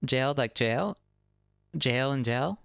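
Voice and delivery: "Jail" with a long ay glide, "gel" with a short e; contrasting jail and gel. Shown as a demonstration. Streamer testing two words for chat's accent query, contrasting jail and gel. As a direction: set "Jail" against "gel", questioning rise. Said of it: "there's a difference between jail and jail".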